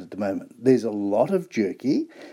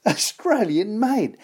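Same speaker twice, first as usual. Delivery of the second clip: slow, higher, delighted through a laugh; laughing emphasis; 6 semitones higher, slower than usual. Real, not acted. Presenter proudly repeating the sock's origin with a laugh. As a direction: savour it with a chuckle.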